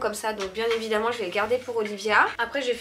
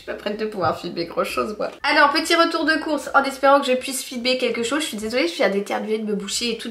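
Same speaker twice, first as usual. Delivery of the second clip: talking through a blocked nose; stuffed-up nose after a sneeze. Real, not acted. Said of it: "donc je parle du nez".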